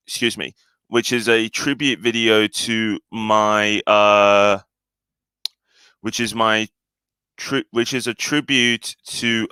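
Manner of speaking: stumbling over the words; halting, tripping speech; stuttering. Real, not acted. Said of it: "I keep stuttering a bit".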